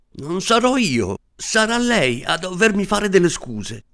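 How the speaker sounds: fighting tears while shouting back; trembling cry. Acted. Little man returning to shout at the assistant, voice trembling. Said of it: "gridò con la voce che gli tremava".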